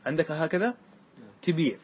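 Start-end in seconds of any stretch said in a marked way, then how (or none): 1.4-1.8 تبيع said tibīʕ, i in both syllables; kasra on ta and ba. Shown as a demonstration. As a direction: pronounce تبيع as ti-bīʕ with a long second vowel. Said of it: "بكسر التاء والباء". (تبيع بكسر التاء والباء)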